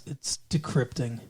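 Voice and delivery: low, soft, unbothered quote; calm retold reply. Retelling him answering her demands, calm. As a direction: answer softly and evenly, imitating his calm. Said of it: "calmly says".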